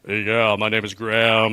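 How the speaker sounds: imitating a bass-voiced self-introduction; mock someone putting bass in their voice; lightly put-on bass voice; Graham. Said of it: "talk with bass in your voice".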